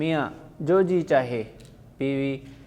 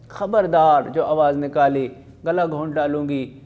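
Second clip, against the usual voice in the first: put-on louder threat to a crying child; threatening; 4 dB louder than usual. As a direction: hush the child with a fierce threat.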